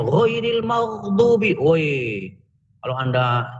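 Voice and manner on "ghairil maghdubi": ghairil maghdubi recited slowly, drawn out; teacher drawing out ghairil maghdubi to show the letters; slow recitation. Shown as a demonstration. Teacher reciting ghairil maghdubi slowly for students. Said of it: "baca Al-Fatihahnya".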